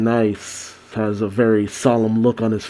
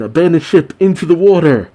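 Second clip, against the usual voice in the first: higher-pitched mock ship's command; calling out orders; 5 semitones higher, faster than usual. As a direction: call it out to a crew, lightly acted. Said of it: "Kojaku calls to her men".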